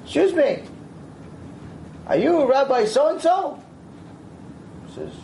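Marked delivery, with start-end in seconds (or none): 0.0-3.6 put-on old woman asking. Old woman asks the Rav.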